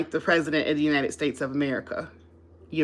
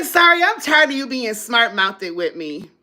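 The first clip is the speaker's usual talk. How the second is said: annoyed reply; 4 semitones higher, 3 dB louder than usual. Retold or imitated. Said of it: "I get attitudes".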